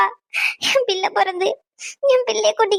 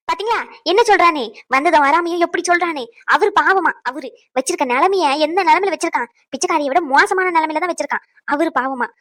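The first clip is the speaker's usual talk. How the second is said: angry mother; 3 semitones lower than usual. Acted. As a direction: lash out at his excuses. Mother angrily mocking husband's defence.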